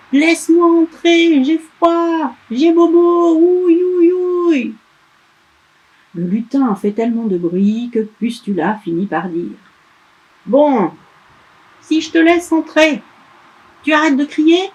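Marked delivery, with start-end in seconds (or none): 0.1-4.7 put-on high, loud childish crying; wailing elf. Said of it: "le petit crie si fort". 10.5-14.6 higher, louder, reluctant bargaining; grudging witch. Acted.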